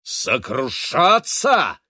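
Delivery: slow, high, loud outraged echo; a captain flaring up at the judge; furious retort. A narrator's reading. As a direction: spit the word back at the judge, enraged. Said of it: "вдруг рассвирепел".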